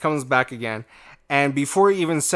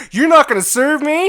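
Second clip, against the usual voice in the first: laughing mock disbelief; 14 semitones higher, 9 dB louder than usual. Customer stunned, teller laughing.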